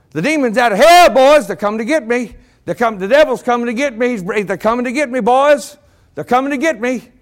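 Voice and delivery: a hammed-up terrified old man seeing demons; preacher voicing a frightened dying dad; panicky dying father. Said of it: "getting real panicky".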